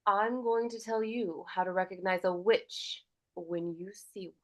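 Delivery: firm, clipped-ending warning, dropping to a whisper; stern, strict grandmother. Shown as a demonstration. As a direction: scold gently like a strict grandmother. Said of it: "stern and strict".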